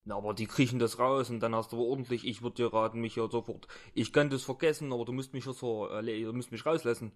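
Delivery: a lightly voiced thug blustering threats; defiant thug. Captive thug threatens his kidnapper, lightly voiced bluster. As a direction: bark back, then fumble the words.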